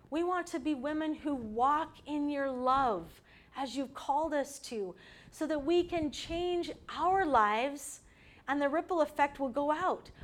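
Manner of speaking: earnest prayer voice, steady and heartfelt; closing prayer. Acted. Speaker praying over the women's group, earnest and steady. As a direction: pray over the women with conviction.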